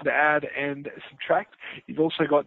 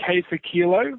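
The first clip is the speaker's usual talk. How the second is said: phonetic alphabet; slower than usual. Real, not acted. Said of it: "I like your phonetic alphabet".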